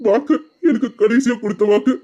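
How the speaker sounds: fighting back tears on the promise; choked up. Acted. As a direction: voice catching with tears. Emotional memory of dead mother. (கண்ணீருடன் தழுதழுத்த குரல்)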